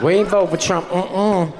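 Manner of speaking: Southern twang imitation. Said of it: "very Southern twang".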